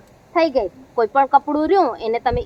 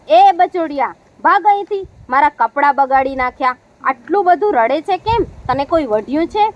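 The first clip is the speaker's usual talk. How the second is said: scolding washerman. Acted. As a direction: tell off the crying little pocket. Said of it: "ધોબીભાઈ તો ખિસ્સા ઉપર ખીજાયા".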